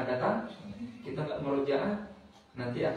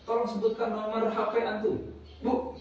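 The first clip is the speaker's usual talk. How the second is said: voicing an Arab caller; 7 semitones higher than usual. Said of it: "dapat telepon dari orang Arab".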